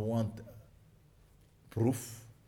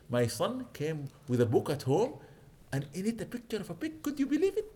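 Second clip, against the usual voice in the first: mock outraged mother, pitch climbing high; angry mother; 5 semitones higher than usual. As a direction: play the scandalised mother rising to a squeal. Angry mother quoted in story.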